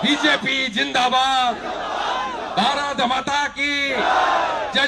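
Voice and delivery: rally slogans called to crowd; slogan shout. Real, not acted. Politician closes rally speech, slogans shouted to crowd. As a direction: end the speech with a rousing cry.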